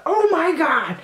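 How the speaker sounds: high laughing gasp of awe; a giggly, high-pitched gasp; mock amazed. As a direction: gush in playful amazement. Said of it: "Like, the".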